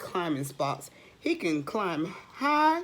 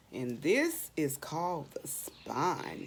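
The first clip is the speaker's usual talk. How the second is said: hushed, secretive whisper; 5 semitones lower, 6 dB quieter than usual. Acted. Whispering a secret to young listeners. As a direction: lean in and whisper to the kids.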